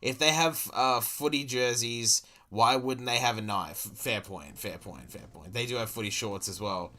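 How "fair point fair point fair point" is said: fading concession. Real, not acted.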